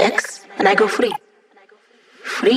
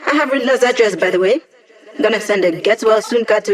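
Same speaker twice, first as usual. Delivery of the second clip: giggly brag. Acted. Gleeful brag after laugh.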